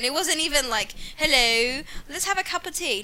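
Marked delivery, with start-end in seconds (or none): 1.2-3.0 mock British accent. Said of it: "she had a horrible British accent".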